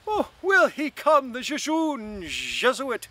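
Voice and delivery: high, loud, laughing delight, slowing at the end; delighted cry. A narrator's reading. Buck Mulligan teasing Stephen, crying out in laughing delight. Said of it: "laughing with delight, cried".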